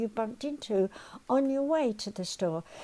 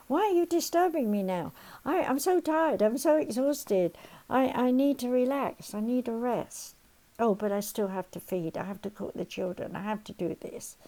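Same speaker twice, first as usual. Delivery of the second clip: irritated tired parent. Retold or imitated.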